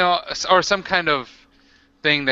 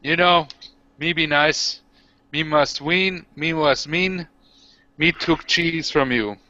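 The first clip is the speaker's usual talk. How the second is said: orc voice; 3 semitones higher, slower than usual. Acted. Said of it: "I say this to him".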